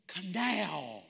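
firm, no-nonsense summons; firm command. Acted. Preacher replacing the gentle reading, firm command.

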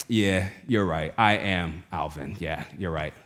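slow, low and soft; quietly conceding, with gaps between phrases; subdued admission. Retold or imitated. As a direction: imitate someone slowly coming round, voice sinking. Uncle slowly remembers who he is.

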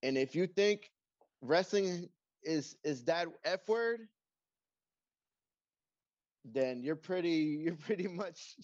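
lightly played referee promo; slow, deliberate tough-guy promo; wrestling promo. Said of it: "I want you to cut a promo".

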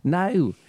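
high No with Jersey O; a light Jersey No. Shown as a demonstration. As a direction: say No with the round East Coast O. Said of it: "the way you say no".

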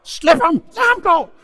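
very loud, high-pitched shouted orders; mother's yell. Retold or imitated. Mother yelling from the kitchen at her son, furious high shout. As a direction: holler frantically from another room. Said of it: "der råbte min mor".

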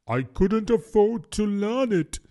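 high, plaintive regret; sighing. A narrator's reading. Mock Turtle explains missing out on washing, sighing. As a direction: say it as a wistful sigh. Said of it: "with a sigh".

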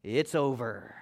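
whispered, gentle breakup line; kind whisper. Shown as a demonstration. Pastor showing how to end a harmful relationship, kind whisper. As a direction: breathe it out as kindly as you can. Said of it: "just really kindly, as nice as you can".

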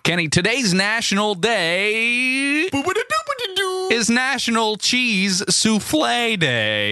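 announcing, big and slow; announcer voice. Acted. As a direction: proclaim the day like a host. Announcing the day.

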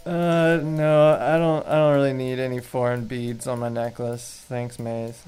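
lightly put-on apathetic Portland accent; understated mock Portland accent. Shown as a demonstration. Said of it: "the Portland accent would".

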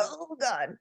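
soft, breathy-free hushed "Oh God" of sinking dread; sudden dread. Retold or imitated. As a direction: let it slip out as a hushed gasp of dread. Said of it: "Do you suddenly go".

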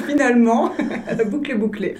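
laughing through the words. Real, not acted. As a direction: chuckle while saying it. Guest laughs at own story. (en riant)

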